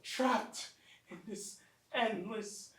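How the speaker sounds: despair. Acted. Despairing after failed escape.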